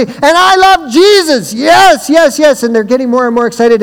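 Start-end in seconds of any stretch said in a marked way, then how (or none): 0.0-2.6 revved-up praise. Retold or imitated. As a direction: pump the teenagers up. Retold hype to the crowd.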